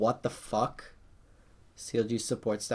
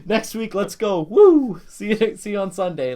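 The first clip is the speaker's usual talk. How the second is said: much higher, louder, with a whooping cheer; forced optimism; 8 semitones higher, 8 dB louder than usual. Retold or imitated. Disappointed fan cheering himself on for next week, much higher. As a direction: pump yourself up after a loss. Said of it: "I was just like".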